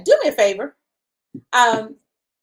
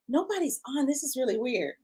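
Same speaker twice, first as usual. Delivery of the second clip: softer, confused to herself; puzzled mutter; 7 dB quieter than usual. Retold or imitated. Retelling her confusion at the empty stream, softly. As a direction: wonder aloud quietly. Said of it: "all of a sudden I'm going".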